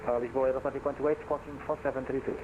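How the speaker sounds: over a pilot headset. Real, not acted. Pilot checking in over radio.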